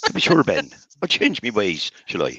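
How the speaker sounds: put-on Irish accent. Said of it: "I'm not sure if that was a pirate accent or the worst Irish accent I've ever heard".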